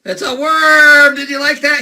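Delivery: high, loud, stretched-out exclamation; mock-triumphant reveal. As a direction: cry it out as a grand reveal. Revealing balloon creation to Caleb.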